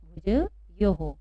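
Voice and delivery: भुजयोः stretched very slowly with the visarga as a clear हो; भुजयोः ending in a sounded हो; slow model reading. Shown as a demonstration. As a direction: read भुजयोः slowly as bhu-ja-yo-ho. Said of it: "क्या पढ़ेंगे हम इसको?".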